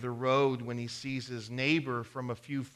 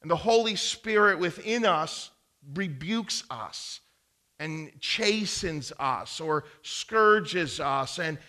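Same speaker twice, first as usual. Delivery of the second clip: preaching; 3 semitones higher, 5 dB louder than usual. Acted. Pastor preaching to the congregation about correction, loud. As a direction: drive each truth home.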